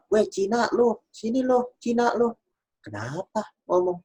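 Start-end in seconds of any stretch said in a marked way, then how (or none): 0.1-2.4 high-pitched mock jeering at a stranger; imitating a racist taunt. Stranger in a mall jeering at the speaker, mock taunt. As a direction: sneer it out in a much higher mock voice. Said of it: "ada satu orang bilang".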